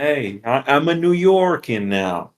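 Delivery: put-on weak New York accent, barely there; a half-hearted stab at New York; terrible New York accent. New York accent badly faked to a cohost. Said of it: "That was a terrible New York accent".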